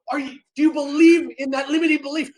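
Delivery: loud, high rallying question; coach calling out. Retold or imitated. Coach to ten thousand people, rallying shout. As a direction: call it out to a crowd. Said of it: "He says".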